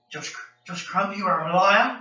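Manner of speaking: imitated slow, woozy phone accusation; medicated drunk friend. Medicated friend phoning with an accusation, slow and drunk. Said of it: "John Connor was very drunk one time".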